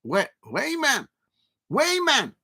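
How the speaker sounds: a butchered Geordie imitation of the name; attempted Geordie accent. Streamer attempts the Geordie accent for the chat. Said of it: "that sounded a bit like Newcastle accent".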